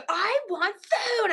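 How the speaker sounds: high, slow mock wail; crying hungry girl. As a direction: imitate a child whining through tears. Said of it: "crying a bit".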